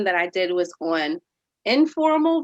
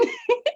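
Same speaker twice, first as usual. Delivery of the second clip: amused laugh. Real, not acted. Laughing at own joke.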